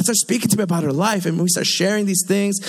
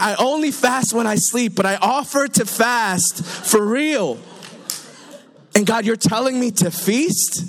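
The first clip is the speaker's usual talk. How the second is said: incredulous protest; 3 semitones higher than usual. Acted. Preacher reminds God he offered to fast, mock incredulous. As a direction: plead your case in comic disbelief. Protests God's word to feast.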